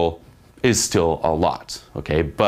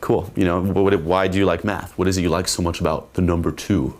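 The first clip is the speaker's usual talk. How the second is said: blasé. Shown as a demonstration. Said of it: "it's gonna be kind of blasé".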